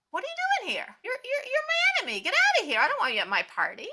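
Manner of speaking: high, loud, furious host yelling; angry shout. Acted. Host ordering his enemy out, furious shout. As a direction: bark him out of the party.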